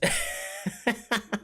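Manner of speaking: quiet unvoiced laugh; breathy giggle under the breath; soft laugh. Real, not acted. Laughing at magician.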